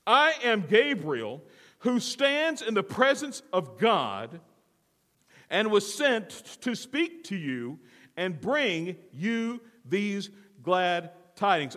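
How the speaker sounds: "I am Gabriel" slow and weighty, each phrase drawn out; emphatic declaration. Acted. Angel pulling rank on Zacharias, "I am Gabriel" in slow emphasis. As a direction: proclaim "I am Gabriel" slowly, with indignant authority. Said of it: "gives great emphasis to".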